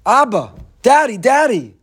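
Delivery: put-on high, loud, desperate child's cry; crying out for daddy. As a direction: plead like a frightened child held down. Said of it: "over and over again calling out".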